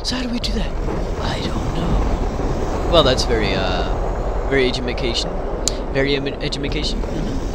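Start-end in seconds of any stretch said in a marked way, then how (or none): 1.2-2.9 whispered. Pretend. Shrugging answer to question. 4.5-7.0 mock-clumsy edumacation, proud of it; goofy edumacation, as if it were a real word; joking mispronunciation. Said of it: "That's a word".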